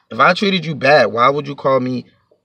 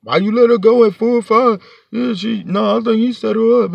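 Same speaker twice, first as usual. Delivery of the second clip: higher, louder mock accusation; imagined accusers; 6 semitones higher, 3 dB louder than usual. Imagined accusers question speaker over letting her go, accusing. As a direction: voice raised as imitated accusers pointing blame.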